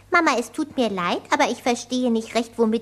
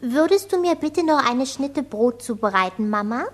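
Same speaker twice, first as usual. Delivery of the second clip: affected posh German. Acted. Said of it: "redete den ganzen Tag über geziert".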